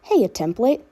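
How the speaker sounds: lightly filtered voice for the clone; processed voice for the clone Dani; filtered clone girl voice. Acted. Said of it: "I will be putting on a filter".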